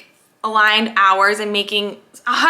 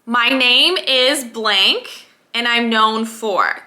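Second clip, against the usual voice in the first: very slow fill-in-the-blank; slow affirmation template; much slower than usual. Shown as a demonstration. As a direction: read the template slowly. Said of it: "affirmation template".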